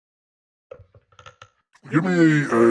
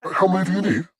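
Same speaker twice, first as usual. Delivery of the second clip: shopkeeper; 8 semitones higher than usual. Acted. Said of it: "as he finishes up with the one guy, uh, uh, he says".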